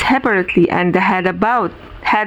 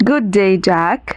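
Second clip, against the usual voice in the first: a touch less sure of himself; less confident. Acted. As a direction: repeat it a little unsure. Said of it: "not quite so much confidence".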